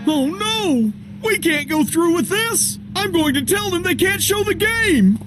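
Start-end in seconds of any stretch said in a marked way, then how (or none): 1.2-5.2 high-pitched, alarmed protest; panicking. Acted. Coach wants to cancel the televised game, panicking. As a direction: back out in a panic, voice raised in pitch.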